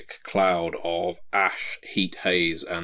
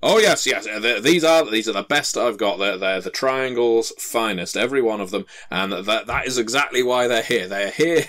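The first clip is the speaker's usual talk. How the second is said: flustered dwarf babbling excuses; nervous dwarf; 3 semitones higher than usual. Acted. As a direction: scramble to shift the blame.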